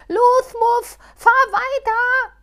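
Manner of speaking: high, loud desperate cry; near tears. Acted. Halbschuh near tears begging Muff to keep driving. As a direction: plead close to tears. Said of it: "nun schon fast weinend".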